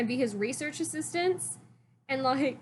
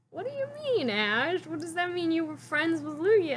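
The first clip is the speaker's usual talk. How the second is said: puzzled question; 6 semitones higher than usual. Retold or imitated. Professors questioning Ash.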